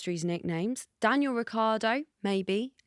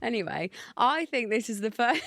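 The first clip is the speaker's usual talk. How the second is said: barely held-in laughter; trying not to laugh. Real, not acted. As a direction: restart the link and crack up. Failing to restart through giggles.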